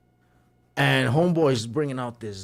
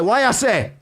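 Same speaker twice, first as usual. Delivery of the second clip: raised, high-pitched mock scolding; indignant owner; 7 semitones higher, 6 dB louder than usual. Owner confronting customer searching for a wallet, mock indignant. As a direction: imitate a fed-up owner, voice up. Angry owner retold in story.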